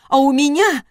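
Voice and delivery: wife breaks off mid-shout; cut-off shout. A narrator's reading. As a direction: shout then stop yourself short. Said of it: "Она осеклась".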